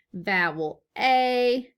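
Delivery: vowel A said slowly and clearly; slow teacher model of vowel A; slow model answer. Shown as a demonstration. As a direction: spell out vowel A slowly for the class. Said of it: "whenever I say this".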